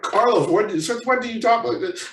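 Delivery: high-pitched imitation of a baffled parent; mock parental shock. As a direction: scold in disbelief, starting loud and high. Parent shocked at back-talk, retold.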